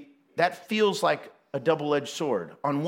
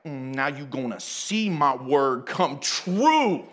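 slow, sassy comeback; sassy God; 5 semitones lower, slower than usual. Retold or imitated. God sassing Moses back, slow and daring. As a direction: give it slow sass, daring him. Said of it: "a little ghetto comes right out of God".

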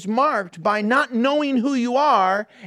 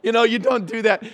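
mock shouted scolding. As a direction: scold the toddler, raising the voice. Scolding a crying baby, repeated.

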